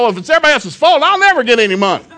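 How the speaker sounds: high, fast, laughing burst; a thought that cracks him up; laughing realization. Retold or imitated. His own realization, laughing.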